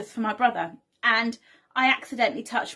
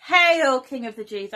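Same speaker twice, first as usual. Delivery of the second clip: mock homage; 2 semitones higher, 6 dB louder than usual. Soldiers pretending to bow to Jesus, mock homage. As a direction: call out a mock royal salute, dropping away after "Hail". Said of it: "pretending to bow down to him".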